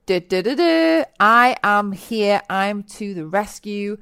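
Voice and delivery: hammed-up rescuer bursting in; mock superhero arriving; mock hero to the rescue. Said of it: "I was like".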